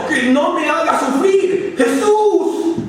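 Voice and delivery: pleading shout. Acted. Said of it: "Le contestó a grito".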